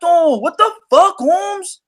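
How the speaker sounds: imitating a Mexican fan in a put-on Mexican-American accent who says you don't know boxing; mock Mexican-American accent. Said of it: "That's how they talk".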